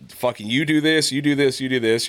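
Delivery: exasperated dad listing chores; mock nagging dad. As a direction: bark orders like a nagging dad. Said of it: "I'm like".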